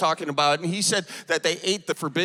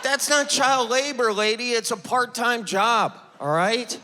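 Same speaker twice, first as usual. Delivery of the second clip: indignant retort; 6 semitones higher than usual. Retold or imitated. Arguing back at heckler.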